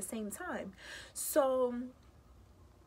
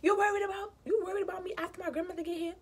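higher and louder, incredulous comeback; indignant retort; 6 semitones higher, 3 dB louder, faster than usual. Retold or imitated. Snapping back at her cousin on the phone, incredulous. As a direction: throw it back at her in disbelief. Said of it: "I'm like".

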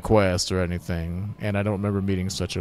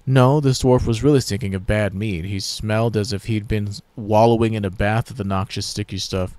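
hero voice; 3 semitones higher, 6 dB louder than usual. Acted. Player character speaks.

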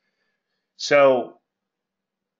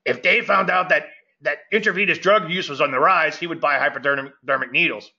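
imitated friend; 3 semitones higher than usual. Trader retelling his friend's saying, lightly imitated. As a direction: quote the friend in his way of talking. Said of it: "This is how I really talk".

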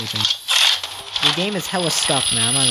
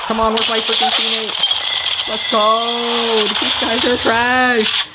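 high, slow, hyped trash talk; hyped gamer; 9 semitones higher, much slower than usual. Real, not acted. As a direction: hype it up mid-fight. Hyped during a firefight.

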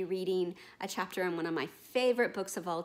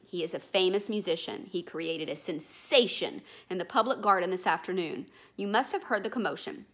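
louder, proud boatman; 4 dB louder than usual. Acted. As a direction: show off your friend. Boatman boasts about the swan.

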